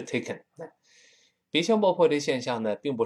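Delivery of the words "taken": "taken" with a full k; correct taken. Shown as a demonstration. Teacher restores the correct "taken". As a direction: say "taken" clearly. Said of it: "所以还是taken".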